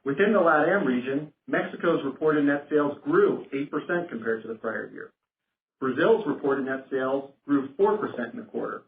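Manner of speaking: ordinary talk, nothing marked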